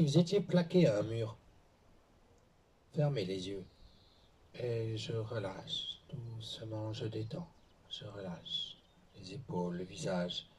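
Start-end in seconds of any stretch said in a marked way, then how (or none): 4.5-10.5 slow, drawn-out calming instruction; unhurried relaxation coaching; guided relaxation. Real, not acted. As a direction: ease them into letting go, stretching the first words. Guides relaxation between exercises.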